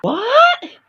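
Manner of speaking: high outraged shriek; high shocked cry; shrieking what. Acted. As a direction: shriek in offended disbelief. Offended at insult talangka.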